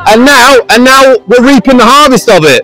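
street preaching. Real, not acted. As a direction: call out to a passing crowd. Preaches to the passing crowd.

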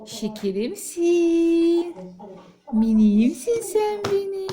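slow, drawn-out loving coo. Real, not acted. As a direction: stretch each pet name out tenderly. Cooing to baby. (bebeğe uzatarak, şefkatle sevgi sözleri)

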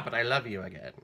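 abrupt drop to an ordinary speaking level; mock lovestruck. Host mimicking the lover's mood swing, suddenly mock loving. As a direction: switch instantly from rage to mock affection. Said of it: "all madly in love with Betty Davis".

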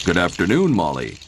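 a lightly voiced shopkeeper greeting; garage owner voice. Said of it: "said the garage owner".

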